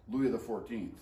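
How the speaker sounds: Louis the fourteenth in a mock French accent; a quick, understated French accent on the name. Shown as a demonstration. Teacher showing the name in a light French accent. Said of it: "That's my French accent".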